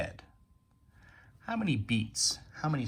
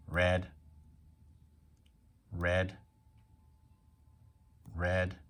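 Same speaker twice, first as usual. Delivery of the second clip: level-toned single robot beat on "Red"; talking like a robot; 3 semitones lower, much slower than usual. Shown as a demonstration. Teacher counting syllables for pupils, robot-like. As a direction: say "Red" as one even, monotone beat. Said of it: "We can tap and talk like a robot".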